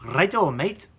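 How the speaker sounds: put-on a quick, cheeky stab at an Irish accent; half-hearted Irish brogue; mock Irish accent. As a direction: toss it off in a jokey Irish accent. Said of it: "I won't be giving this review in my Irish accent".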